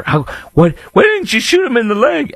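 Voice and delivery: squeaky high mocking whine; mock the critics with a high whiny voice. Radio host mocking critics with high whiny voice. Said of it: "You know, or".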